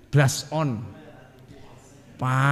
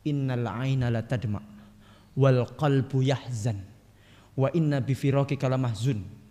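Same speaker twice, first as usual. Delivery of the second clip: slow, soft Arabic recitation; quoted hadith recitation; 4 semitones lower, 4 dB quieter than usual. Acted. Preacher quoting the Prophet's grief to the congregation, slow soft recitation. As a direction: intone the hadith slowly and gently. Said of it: "kata Rasulullah".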